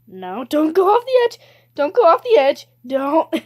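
loud, high plea; urgent warning. Real, not acted. Player warning not to go off the edge, urgent warning. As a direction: cry out to stop a fall.

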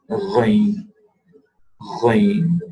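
ghain from deep in the throat, gargled; deep throat ghain demo. Shown as a demonstration. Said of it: "description of the makhraj of ghain".

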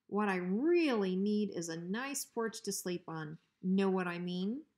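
a hint of sly menace; hint at what you want, coolly; lightly voiced bully dog. Bruiser slyly asking Hank for his porch.

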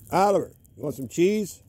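high, loud sing-song offer; a loud rising tempting call; coaxing call. Real, not acted. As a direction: lure the dog in from afar. Coaxing dog with cheese.

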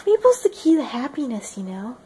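light mock Canadian impression; Canadian character voice. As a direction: play a mild-mannered Canadian. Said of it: "Okay, that was horrible".

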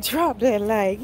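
each word of DROP THAT LIKE stretched slowly; drawn-out quote. Retold or imitated. Repeating a viewer's comment to the stream, drawn out. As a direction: read it back slowly, stretching the words.

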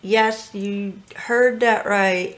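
talking with a brush between teeth. Real, not acted. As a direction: speak around a brush held in the teeth. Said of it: "I am holding a brush between my teeth".

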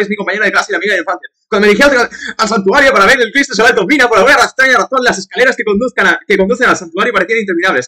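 game intro read aloud; story narration. Acted.

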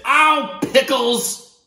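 high, loud whiny protest; boy complaining. Acted. Boy protesting bedtime, high and loud. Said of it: "So he says".

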